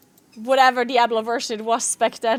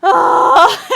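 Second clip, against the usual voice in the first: high loud despairing cry; anguished wail; 6 semitones higher, 8 dB louder than usual. Real, not acted. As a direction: wail it out in defeat. Failed key, wailing.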